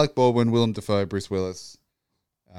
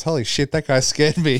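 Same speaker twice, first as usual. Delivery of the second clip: shaken Pacino; 6 semitones higher, 4 dB louder than usual. Retold or imitated. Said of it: "Al Pacino turns to someone and goes".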